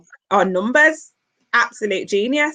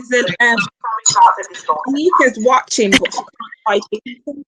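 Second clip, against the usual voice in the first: fuzz distortion. Real, not acted. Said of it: "Sorry about the distortion".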